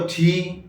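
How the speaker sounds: ٹھی with a puff of air after t; aspirated T. Shown as a demonstration. Teacher explains English T to learners, aspirated ٹھی. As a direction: say ٹھی as a breath-released t. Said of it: "عموماً تلفظ کرتے".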